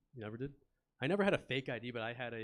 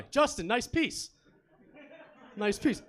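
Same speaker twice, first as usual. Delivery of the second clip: loud, slow, high call across a crowded bar; bellowed slow greeting in a packed bar; shouting across a bar; 11 semitones higher, 8 dB louder, much slower than usual. Retold or imitated. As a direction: yell it over the bar noise, drawn out.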